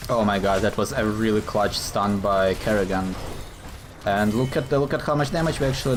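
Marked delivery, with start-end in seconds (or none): 4.3-6.0 voice crack. Real, not acted. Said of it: "I'm sorry about that voice crack".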